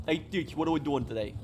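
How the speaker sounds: casual New Yorker accent demo. Shown as a demonstration. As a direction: show off a light New York accent. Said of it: "basically New York accent".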